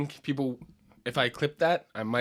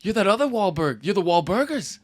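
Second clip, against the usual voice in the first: Wahlberg brother voice; 5 semitones higher, 4 dB louder than usual. Acted. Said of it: "You're my brother".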